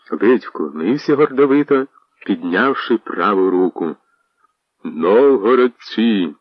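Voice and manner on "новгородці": strong voice. Acted. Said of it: "крикнув він дужим голосом".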